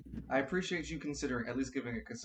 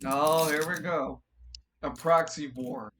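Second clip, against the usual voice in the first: excited; 3 semitones higher, 8 dB louder than usual. Real, not acted. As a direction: raise the voice with glee. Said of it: "excited loud reaction".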